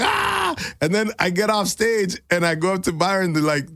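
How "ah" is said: high, mock roar of a crowd; sudden high cheer; crowd cheer imitation. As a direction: imitate the audience whooping. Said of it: "they're like".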